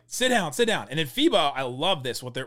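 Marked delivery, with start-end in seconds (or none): 0.1-0.9 higher, insistent coach command, said twice; repeated coach order. Retold or imitated. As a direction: keep ordering him to sit like a fed-up coach. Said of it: "was like".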